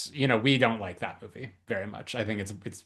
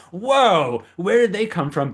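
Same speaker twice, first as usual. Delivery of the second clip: high, loud baffled exclamation; mock surprise; 8 semitones higher, 8 dB louder than usual. Co-host reacting to characters suddenly showing up, mock surprise. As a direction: burst out in exaggerated bewilderment.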